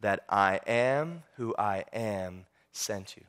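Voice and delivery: deep, slow, solemn divine voice; God speaking, grave and unhurried; booming voice of God. Acted. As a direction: pronounce it low and measured, with weighty pauses. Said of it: "that booming voice says".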